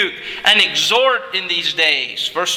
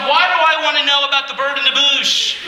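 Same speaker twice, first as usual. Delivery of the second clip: exasperated inner thought; 7 semitones higher, faster than usual. Retold or imitated. Inner frustration at dull sermon.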